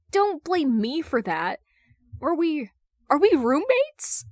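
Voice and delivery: exasperated, pitch shooting up on roommates; indignant. Acted. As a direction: push back, voice climbing in disbelief. Hal argues with Bruce.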